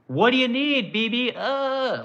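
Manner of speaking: high-pitched fawning mock voice; mock an over-eager, servile pushover; mocking Trump. Mimics Trump fawning over Netanyahu.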